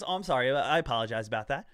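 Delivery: low, mild mock apology; suddenly nice again. Date apologizing to him after hanging up the phone, mock nice again. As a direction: drop into a calm, sheepish imitation apology. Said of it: "now again she's nice again".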